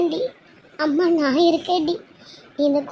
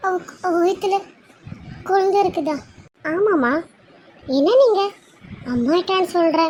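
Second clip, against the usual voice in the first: higher, breathless disbelief; astonished mother, voice raised high; stunned mother; 4 semitones higher than usual. Acted. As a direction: ask it again and again, unable to believe it. Mother hears daughter is pregnant.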